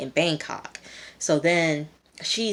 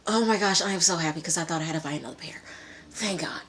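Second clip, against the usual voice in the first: really happy; faster than usual. Real, not acted. Host relieved at finding lost sweatpants, happily gushing.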